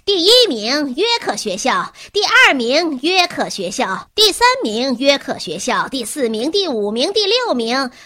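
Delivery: loud announcer over a PA; loudspeaker announcement. A narrator's reading. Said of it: "广播喇叭已经响起来了".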